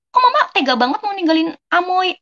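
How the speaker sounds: high, pleading plea to mama not to leave; begging mama not to leave Amoy behind; pleading reproach. Retold or imitated. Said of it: "Mama lagi di P T, katanya".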